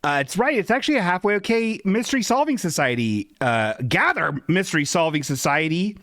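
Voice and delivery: a lightly voiced British gent announcing the mystery; hint of British accent. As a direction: play the jolly British sleuth, governor. Host slips into British detective.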